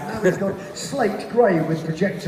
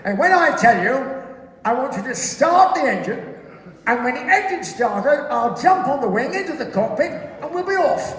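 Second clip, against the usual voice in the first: pilot briefing; 6 semitones higher, 3 dB louder than usual. Acted. Acting the pilot briefing the crew.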